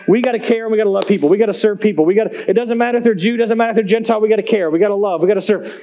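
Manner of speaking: rapid-fire, repetitive urging; urgent exhortation. Retold or imitated. Jesus drills his twenty followers on loving people, urgent retold exhortation. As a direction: rattle off each point without a breath.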